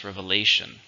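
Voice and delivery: Revelation, with LA stressed; Revelation, weight on LA; stress on third syllable. Shown as a demonstration. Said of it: "Stress on the third".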